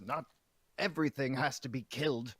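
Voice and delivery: a touch of acted anger, half-shouted; kind of angry shout. Player voices Six scolding anyone who will listen, mildly angry. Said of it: "Six kind of angrily shouts".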